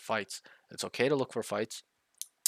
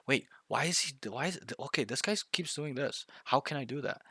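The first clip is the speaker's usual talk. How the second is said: higher-pitched mock thinking aloud; puzzled self-questioning; 4 semitones higher than usual. Player to himself about the enemy, puzzled thinking aloud. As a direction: act out working through a puzzle.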